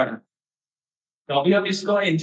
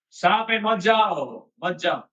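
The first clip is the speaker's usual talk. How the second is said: acted warning; 4 semitones higher, slower than usual. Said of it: "दूसरा दोस्त बोलते हैं".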